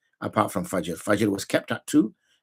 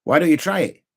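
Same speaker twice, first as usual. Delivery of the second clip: threatening; 5 semitones higher, 5 dB louder than usual. Shown as a demonstration. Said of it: "just by the tone of my voice".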